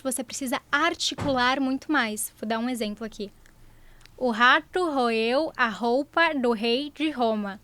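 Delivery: slow tongue twister, pen between teeth. Shown as a demonstration. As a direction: articulate carefully around a bitten pen. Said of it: "o áudio vai ficar ótimo agora".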